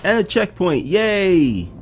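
loud, high-pitched celebration; high, loud whoop of delight; excited cheer. Real, not acted. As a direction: cheer at a welcome relief, drawing out the last word. Cheering at finding a checkpoint.

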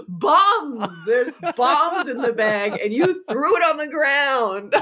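mock panic. Panicked onlooker in retold scene.

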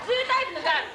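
English words in Japanese pronunciation; Japanese-accented English. Real, not acted. Teacher tries English for the guest, Japanese-accented English. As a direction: say ツータイプのガール with Japanese sounds. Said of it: "それ日本語の発音ただ言ってるだけだよ".

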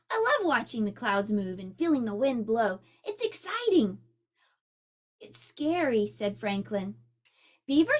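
put-on lively storybook reading for kids; story narration. A narrator's reading. Reading a picture book to young children, lively narration.

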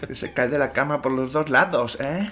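words broken up by laughter; chuckling through the joke; giggling as he finishes the joke; laughing while talking. Real, not acted.

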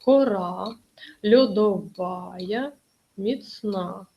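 measured recitation of Кора, льодовая, міцна for stress; scanning verse aloud. Shown as a demonstration. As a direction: read syllable by syllable, slow on льодовая. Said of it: "ми не ставимо на ньому наголос".

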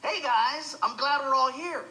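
a touch brighter cartoon line read; lightly performed first take. Shown as a demonstration. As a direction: deliver the line like a voice actor. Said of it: "Okay, here we go".

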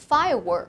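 Firework with the weight on "FIRE", the final k sounded; stress on first syllable. Shown as a demonstration. Teacher rereads the word for her class, careful stress. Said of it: "Cô đọc lại một lần này".

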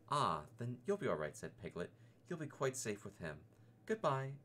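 a piglet glad to escape danger; relieved little Piglet. Acted.

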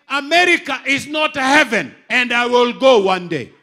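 loud, high shout; defiant shout. Retold or imitated. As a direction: shout it back at the officer. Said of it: "he shouted at them".

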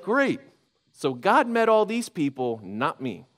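a bitter, sarcastic "Great", then a drop on "not me"; bitter sarcasm. Retold or imitated. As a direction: say it like someone left out, wry and hurt. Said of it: "he's like".

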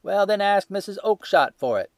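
angry shouting. A narrator's reading. Salesman chasing off the little man, shouting. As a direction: shove him out the door with your voice. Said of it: "he shouted".

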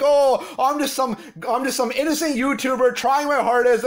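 hammed-up innocent whine, the "Oh" shouted; sarcastic mock of a sweet persona. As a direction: mimic a fake-innocent YouTuber. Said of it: "put this fake persona out there like".

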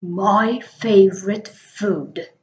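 a hint of a hungry monster; lightly voiced Gruffalo. Gruffalo eyeing the mouse, slow and hungry.

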